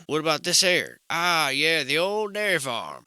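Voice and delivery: faking familiarity with the town; mock old-timer. Shown as a demonstration. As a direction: play the veteran who knows the area. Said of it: "you simply add the old in front of it".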